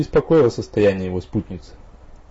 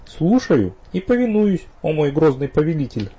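bow with a wink in the voice; ironic; 7 semitones higher than usual. A narrator's reading. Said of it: "обычным ироничным тоном добавила".

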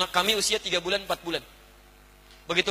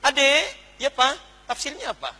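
calling out; 6 semitones higher, 4 dB louder, slower than usual. Retold or imitated. Father calls second child.

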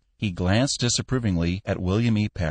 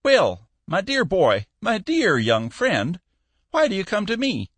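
put-on fond old Cappy; 13 semitones higher than usual. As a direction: draw it out like a kindly old boss. Cappy coaxing the young man.

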